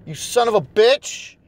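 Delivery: ordinary talk, nothing marked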